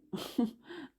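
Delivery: short nervous laugh, imitated; a quick uneasy laugh before answering. Imitating the baker's nervous laugh before defending his work. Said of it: "him laughing nervously".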